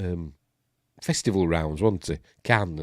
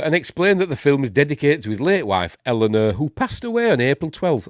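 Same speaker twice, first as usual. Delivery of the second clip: projected, higher-pitched news read; article read-aloud; 6 semitones higher, 5 dB louder than usual. Acted. Host reading film news to viewers, lively read-aloud. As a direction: read it out like an entertainment bulletin.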